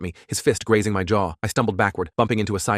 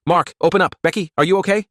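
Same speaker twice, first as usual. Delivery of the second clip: urgent, raised voice through a door; calling out loud; 10 semitones higher, 5 dB louder than usual. A narrator's reading. Pounding on door, calling inside.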